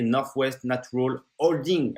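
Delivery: Northwest Natural Holding said slowly with a French accent; English name in a self-mocking French accent. Real, not acted. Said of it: "avec le magnifique accent français".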